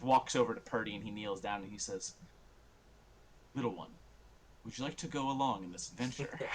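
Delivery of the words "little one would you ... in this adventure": soft, coaxing king's voice; gentle invitation. Acted. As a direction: kneel down to a little one and ask softly. King kneels to little one.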